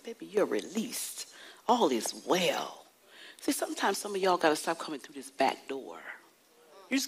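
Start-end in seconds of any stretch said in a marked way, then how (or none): 0.0-2.8 whispered release. Retold or imitated. Tenderly releasing the lady.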